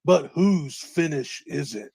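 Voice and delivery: slow dramatic announcer tease; serious announcer voice. Acted. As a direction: drag out the cliffhanger line. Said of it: "serious announcer voice".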